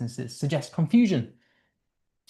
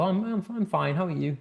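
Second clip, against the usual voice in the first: higher, brushed-off cheerful reply; forced fine; 4 semitones higher, 5 dB quieter than usual. Shown as a demonstration. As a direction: cover it with a quick fine. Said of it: "when people ask me how I am, I go".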